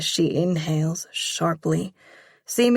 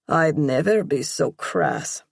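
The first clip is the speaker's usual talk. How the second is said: deadpan. Acted. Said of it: "he deadpans".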